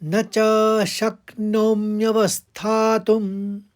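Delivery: शक्नोम्यवस्थातुम said as one slow joined word. Shown as a demonstration. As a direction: read it all together slowly. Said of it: "तो एक साथ पढ़ने में". (एक साथ जोड़कर पढ़ें)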